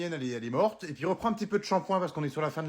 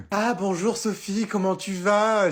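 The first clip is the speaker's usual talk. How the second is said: slow, sugary, drawn-out hello; fake sweet greeting; 5 semitones higher, 4 dB louder, slower than usual. Wife greeting Sophie with slow sugary fake politeness. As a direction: greet her with syrupy false politeness.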